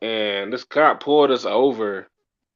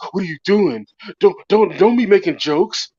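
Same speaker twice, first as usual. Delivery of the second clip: higher, louder mock scolding; retold mad friend; 7 semitones higher, 3 dB louder than usual. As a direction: imitate an annoyed friend telling you off. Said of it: "He was all mad at me".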